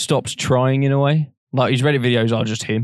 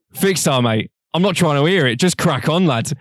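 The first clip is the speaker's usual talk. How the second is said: lightly voiced laddish mate, higher; imitating Ethan; 5 semitones higher, 3 dB louder than usual. Retelling Ethan brushing off Vic, mock laddish. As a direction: brush it off like a cheeky lad. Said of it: "Ethan goes".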